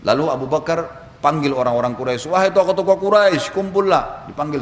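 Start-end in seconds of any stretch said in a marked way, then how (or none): 2.3-4.2 calling out. Retold or imitated. Summoning the Quraisy leaders.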